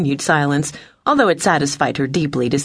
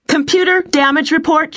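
high, raised command; called-out order; 12 semitones higher, 4 dB louder than usual. A narrator's reading. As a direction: call out sharply to the computer. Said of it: "she called out".

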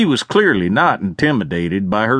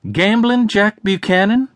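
raised, firm announcement in a higher voice; stated loudly; 6 semitones higher than usual. A narrator's reading. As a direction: call out the arrest warrant so the room hears. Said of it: "Natalie stated loudly".

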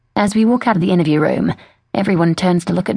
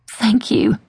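slow, breathy grateful whisper; 5 semitones higher than usual. Acted. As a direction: whisper it slowly, face inches from his. Confiding whisper to the detective.

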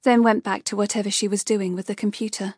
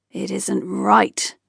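snarl; much slower than usual. Acted. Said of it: "the gargoyle snarled".

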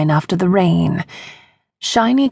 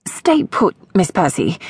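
crying out. Acted. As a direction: call it out over your shoulder while running. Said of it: "With a cry of".

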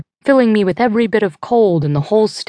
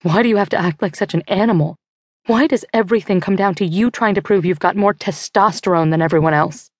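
scolding; faster than usual. Acted. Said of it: "Carolyn keeps laying into Duncan".

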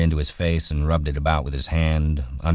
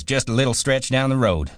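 mocking bus driver; 9 semitones higher than usual. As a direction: mimic the driver in a much higher, sneering voice. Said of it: "Kicks us out and says".

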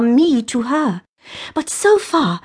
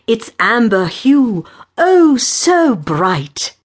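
overblown poem recital; 4 dB louder, slower than usual. Acted. Suitor reads second verse.

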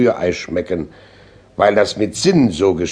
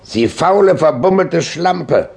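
scornful insult; 8 semitones higher, 3 dB louder than usual. Acted. Mirror insulting the lamp, loftily scornful.

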